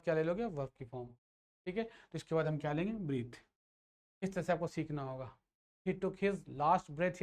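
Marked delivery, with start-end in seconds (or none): 5.9-7.2 slow example sentence. Shown as a demonstration. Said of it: "या लास्ट ब्रीथ बोलो".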